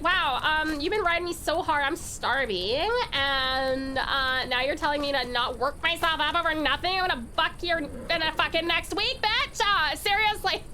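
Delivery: ranting as the hungry horse, half joking; a horse complaining to its rider, lightly voiced; voicing the starving horse. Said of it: "I'd be like".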